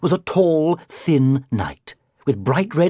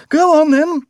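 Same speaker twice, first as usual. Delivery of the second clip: higher, louder, daring outburst; defiant; 13 semitones higher, 7 dB louder than usual. A narrator's reading. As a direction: dare her to do it. Knight defies the witch.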